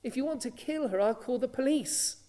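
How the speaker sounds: calling out. Retold or imitated. Husband warns the mother so neighbours hear, mildly called out. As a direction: retell a man speaking up, without really shouting. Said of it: "he called out".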